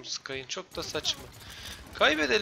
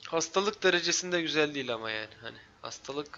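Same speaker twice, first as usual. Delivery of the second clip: stuffy nose. Real, not acted. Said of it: "Şu an benim burnum tıkalı".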